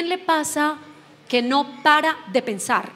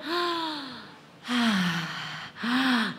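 demo breathy sighs; 6 dB quieter, much slower than usual. Shown as a demonstration. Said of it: "Hagámoslo".

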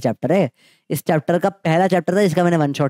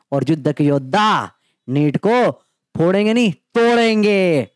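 rousing slogan; 2 semitones higher, slower than usual. Acted. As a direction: fire the students up like a war cry. Chanting motivational slogan.

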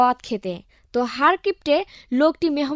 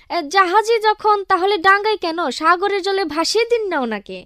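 sly retort; 6 semitones higher than usual. Acted. Clever retort to insult.

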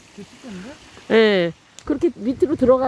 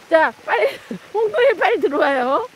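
urging call; 7 semitones higher than usual. Real, not acted. Urging the swimmers to jump in.

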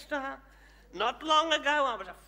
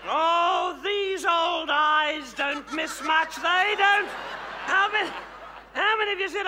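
mock menace; 3 semitones higher, 5 dB louder than usual.

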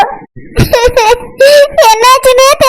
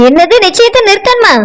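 lower-voiced, doubting wife; a wife who is unimpressed, lower voice; dismissive wife; 3 semitones lower than usual. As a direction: brush the news off, lower. Wife figure.

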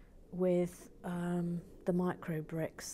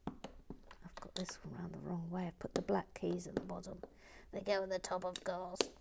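whisper; 9 dB quieter than usual. Real, not acted. Whispering mistake.

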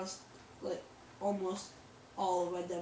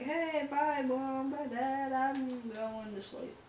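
waving goodbye; 4 semitones higher, slower than usual. Acted. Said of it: "I was just kinda waving goodbye".

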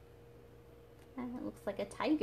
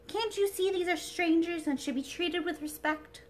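sweet airy princess voice; 7 semitones higher than usual. Acted. China princess speaks.

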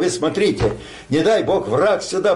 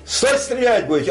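raised, higher call of a guard; sentry shout; 7 semitones higher than usual. Retold or imitated. Sentry warning before shooting.

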